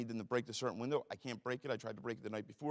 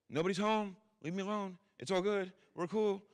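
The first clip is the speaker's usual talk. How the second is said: high, loud fake-innocent call through the door; 9 semitones higher, 4 dB louder than usual. Drunk man calling to police at the door, high and loud. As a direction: pitch it way up, sing-song innocent.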